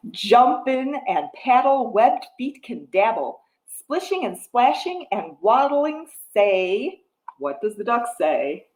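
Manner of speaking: rhythmic picture-book reading; reading to a toddler. Acted. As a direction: read the rhyme to little ones. Reads picture book rhyme.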